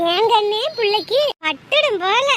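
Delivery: gushing admiration. Acted. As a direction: marvel at her, stretching the words out. Admiring the dressed-up bride.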